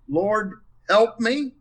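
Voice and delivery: slow, high, with "help" leaned on hardest; stress on help. Shown as a demonstration. Showing the panel another reading, weight on help. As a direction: drag out "help" as the real need. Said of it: "put the emphasis on those different words".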